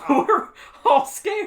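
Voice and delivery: high, loud, laughing through it; real laughter while telling. Real, not acted. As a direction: giggle out the words, slow.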